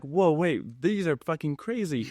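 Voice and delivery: shocked objection. Retold or imitated. Acted shocked sponsor reaction.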